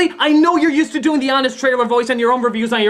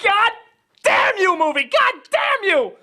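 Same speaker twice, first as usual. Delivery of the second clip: exasperated outburst; 8 semitones higher than usual. Real, not acted. Fan raging at movie.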